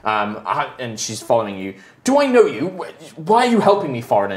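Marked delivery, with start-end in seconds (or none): 2.0-4.3 wary woman. Acted. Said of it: "she's calling out to you".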